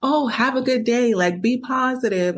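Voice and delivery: bubbly send-off, lightly mocked; mock bouncy cheer. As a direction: imitate his carefree good-morning cheer. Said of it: "bouncing all around like".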